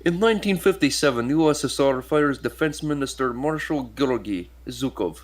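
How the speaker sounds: mock Russian accent, starting high and emphatic. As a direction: read it out with a playful Russian accent. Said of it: "proceeds to do a Russian accent".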